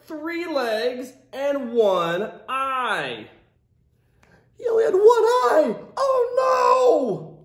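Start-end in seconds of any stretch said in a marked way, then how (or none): 4.6-7.4 mock dismay. Mock dismay at lost eye.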